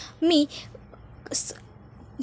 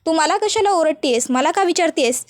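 shouting back; 3 semitones higher than usual. Acted. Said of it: "सोहमसुद्धा आता काजलवर ओरडतो".

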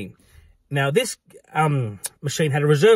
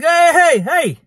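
high, loud "hey" to stop someone; sharp high shout of alarm; calling out; 13 semitones higher, 6 dB louder, much slower than usual. Retold or imitated. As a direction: call out urgently, pitched well up. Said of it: "like that".

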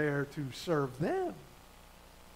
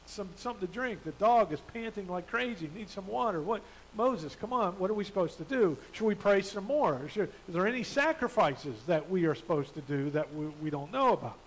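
calm request. Retold or imitated. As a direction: ask gently rather than grumble. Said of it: "just calmly gone up to Moses".

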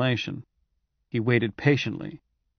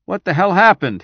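louder, higher demand; 6 semitones higher, 7 dB louder than usual. Acted. General demanding the room explain, loud and sharp. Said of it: "he demanded".

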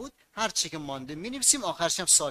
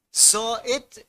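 raised, louder key word; emphatic keyword; 6 semitones higher, 6 dB louder, slower than usual. Shown as a demonstration. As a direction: call out the key term for the class. Teacher calls out key word. (با تأکید و بلند)

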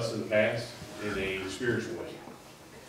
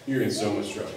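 mock scolding through a laugh; 3 semitones higher, 3 dB quieter, faster than usual. Mom scolding her found child, laughing and quick. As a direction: tease the kid while laughing, quick. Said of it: "happy frustration".

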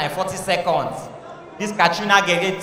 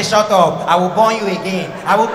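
mock macho retort; 4 dB louder than usual. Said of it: "I say".

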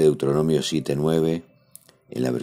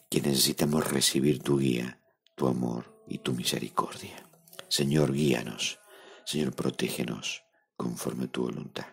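heartfelt prayer. Acted. Leads a spoken prayer.

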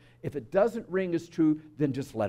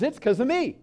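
higher-pitched, pleased with oneself; proud child; 8 semitones higher than usual. Acted. Egocentric child when something wonderful happens, proud and higher. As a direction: chirp it like a self-centred kid.

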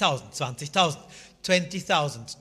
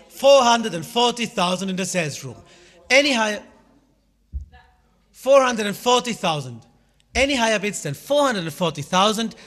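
louder, higher auction calling; loud auctioneer; 4 semitones higher, 6 dB louder than usual. Real, not acted. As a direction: push the room for a higher bid. Auctioneer pushing a top bid.

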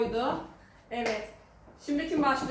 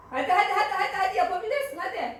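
cheering; 5 semitones higher, faster than usual. Real, not acted. Cheering son to drink.

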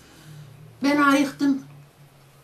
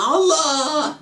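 retold cry; 4 semitones higher, 7 dB louder than usual. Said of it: "diye bir bağırıyor".

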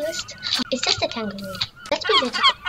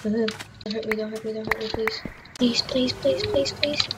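soft, scared begging; hushed mock-terrified plea; frightened pleading; 2 semitones lower, 3 dB quieter than usual. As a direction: plead quietly so it spares you. Begging mob, voice drops.

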